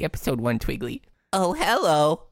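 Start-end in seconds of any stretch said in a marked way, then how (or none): 1.3-2.2 character voice try. Acted. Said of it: "lower than that".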